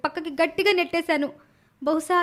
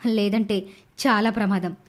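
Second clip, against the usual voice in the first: lower, menacing scheming voice; scheming thoughts; 4 semitones lower than usual. Acted. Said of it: "లీల తన మనసులో ఇలా అనుకుంటూ".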